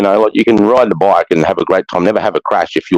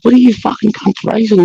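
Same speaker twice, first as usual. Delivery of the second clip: mock angry yell; 11 semitones higher than usual. Angry shout at racing bikers.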